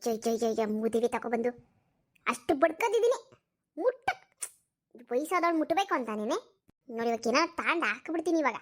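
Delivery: grumbling granny barking for her towel; scolding old woman. Acted. (ಮುದುಕಿ ಜಯನನ್ನು ಬೈಯುತ್ತಾ towel ಕೇಳುವುದು)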